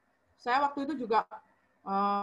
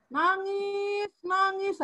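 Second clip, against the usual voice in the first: retold crying; 9 semitones higher, 3 dB louder, much slower than usual. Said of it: "Ternyata nangis".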